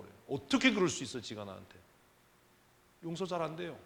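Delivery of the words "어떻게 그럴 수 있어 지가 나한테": a hurt wife's indignant burst; indignant outburst. Acted. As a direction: spit out the hurt, then let it sink. Preacher voicing indignation.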